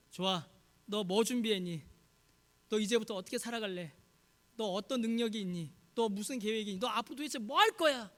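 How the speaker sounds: rapid-succession interrogation; acted impatient demanding; pressing. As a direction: press with question after question, building at the end. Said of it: "재촉하지도 않으셨습니다".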